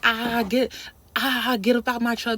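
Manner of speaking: mocking imitation of a childish jeer; immature taunting. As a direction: crow it loudly, drawing out the "ah". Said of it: "he was acting really immature".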